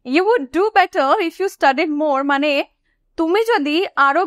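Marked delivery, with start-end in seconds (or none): 0.0-2.2 very slow, each word laid out; slow teaching model. Shown as a demonstration. Teacher rereading the sentence slowly for students. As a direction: read it slowly for learners. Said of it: "if দিয়ে sentence start হয়েছে।".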